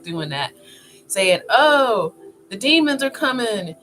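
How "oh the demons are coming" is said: mock alarm. Mimicking alarmist people on TikTok.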